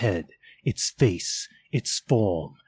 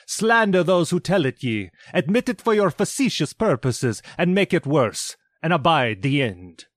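higher, forceful bitter tirade; scornful spirit; 7 semitones higher, 3 dB louder than usual. Acted. Spirit denounces mankind before Scrooge, forceful and scornful. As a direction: spit the charge at mankind.

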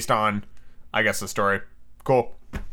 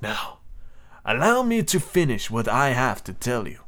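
gentler voice; slower than usual. Acted. The captain softens his tone toward the professor, gently. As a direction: ease off, speak gently. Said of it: "in a gentler voice he went on".

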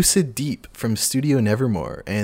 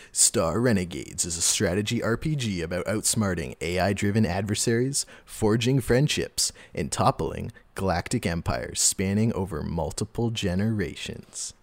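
trailer voice guy; 3 dB quieter than usual. Acted. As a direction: read it like an epic game trailer. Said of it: "the trailer g-, voice guy".

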